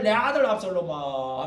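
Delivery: mock lament. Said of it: "왕궁에서 맨날".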